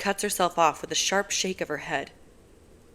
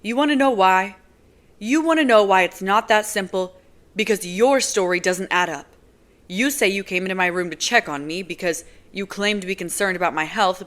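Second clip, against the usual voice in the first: accusing; 2 semitones higher, 6 dB louder than usual. Acted. Nazira's voice, accusing Kenji.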